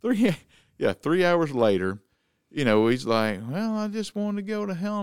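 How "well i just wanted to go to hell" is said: lightly voiced high, softened drunk; imitated drunk man. Drunk man explains himself to the homeowner, imitated drunk voice. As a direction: play the drunk man's higher-pitched reply. Retold drunk man's reply.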